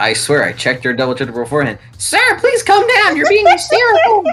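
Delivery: put-on girly voice. Imitating a man who voices a girl in his retelling, high-pitched girl voice. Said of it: "a really high pitched voice to represent that I, I am now voicing a girl".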